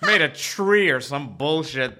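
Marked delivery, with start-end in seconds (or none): 0.0-0.9 high, slow mocking whine with a laugh; mocking whiny guide. Mocking the tour guide to a friend, whiny and laughing. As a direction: lightly mimic a preachy tour guide, whining. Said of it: "this whiny Jew".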